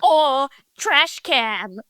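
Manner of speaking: slow, drawn-out mock American; mocking American accent. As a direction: tease Americans with a slowed imitated accent. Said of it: "takes the piss out of, um, Americans".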